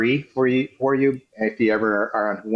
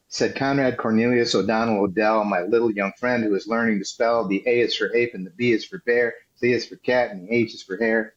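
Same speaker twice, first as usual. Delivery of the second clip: bouncy meter, "said Conrad Cornelius O'Donnell Odell" read with two light beats then a strong one; bouncy galloping verse. Shown as a demonstration. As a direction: recite it in galloping anapestic beats. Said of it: "That's the rhythm".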